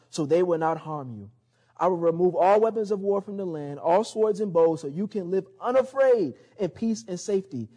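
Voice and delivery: solemn Bible reading; scripture reading. Acted. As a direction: read it out like a proclamation.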